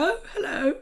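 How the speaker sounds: high posh greeting, swooping up; posh accent. Acted. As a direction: try out a hammed-up posh hello. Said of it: "Can we do a posh accent?".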